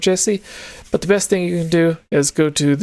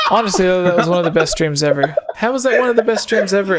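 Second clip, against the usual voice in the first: laughing; 3 semitones higher, faster than usual. Real, not acted. Laughing while praising stream.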